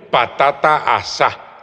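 slow "patata asá", stressed on the last á; said as written. Shown as a demonstration. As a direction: raise the pitch and end "asá" on á. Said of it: "Como suena".

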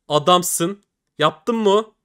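jumping up with excitement; excited cheer. Real, not acted. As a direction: cheer the win out loud. Reacting to a good drop.

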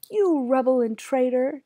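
yelled accusation. A narrator's reading. Judge turns on Faithful, yelling. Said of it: "Judge Hategood yelled".

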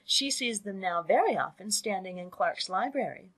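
lightly voiced eager girl; excitable young daughter. Daughter telling mother gossip about officers, mildly excited.

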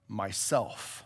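low, soft solemn voice; very deep and low. A narrator's reading. Lion answering who he is, very deep and low. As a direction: drop it deep and quiet. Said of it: "very deep and low".

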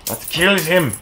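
put-on playful German-accented command; lightly put-on German accent. Player egging on his fighters, mock German accent. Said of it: "I don't know why I'm turning German".

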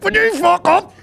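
high, loud mocking Belfast snap; mock Belfast retort. Host answering a listener's cafe question, loud and mocking. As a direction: fire it back like a fed-up local. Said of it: "I'd be like".

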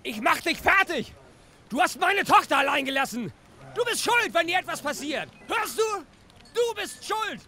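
loud, high, raging accusation; furious screaming. Acted. Father dragged off screams blame at the young policeman, loud furious yelling. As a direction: hurl the blame at him as they drag you off.

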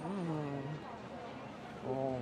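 talking while chewing food; muffled through closed lips; mouth full, chewing. Real, not acted. Seen 0: Puts sushi in mouth at -2; mouth closed, chewing throughout.

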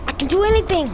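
high, loud triumphant cry; excited. Real, not acted. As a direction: shout it with joy. Excited at a new power.

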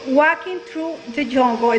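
put-on reading "Walking through the jungle" slowly with a Spanish accent; Spanish-accented English. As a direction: leerlo despacio con acento latino. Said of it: "Entonces yo digo". ("Walking through the jungle" leído lento con acento latino)

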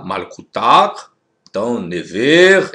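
Malkutar and Never read slow and careful; Hebrew-style pronunciation. Shown as a demonstration. Teacher contrasting pronunciations for viewers, slow and careful. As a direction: sound out Malkutar slowly. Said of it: "diverge um pouquinho da pronúncia".

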